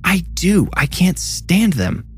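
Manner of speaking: high-pitched slow shout. A narrator's reading. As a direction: yell it out, indignant. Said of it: "Isla shouted".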